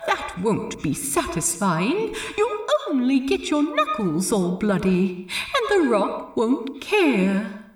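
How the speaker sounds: lightly voiced inner Steed, reasoning gently; a hint of the reasonable friend talking him down; Steed's voice. Imagined Steed calmly talking Ed out of punching, lightly voiced. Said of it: "a voice in his head that sounded suspiciously like Steed".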